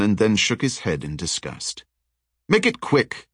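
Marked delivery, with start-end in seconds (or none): 2.5-3.3 a sharp, higher snap of impatience; snapped. Acted. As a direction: cut him off, impatient and high. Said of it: "he snapped".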